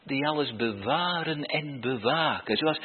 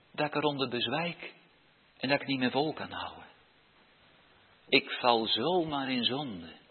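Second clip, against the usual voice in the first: modelled prayer. Shown as a demonstration. Models a child's morning prayer. (zacht, nederig gebed)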